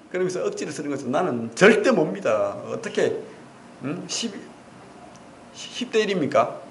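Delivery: usual speaking voice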